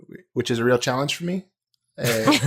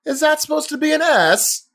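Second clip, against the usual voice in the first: high, loud British chef tirade; mock-outraged English accent rant; Gordon Ramsay; 8 semitones higher, 3 dB louder than usual. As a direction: scold like a furious British TV chef, hammed up. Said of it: "the Gordon Ramsay style".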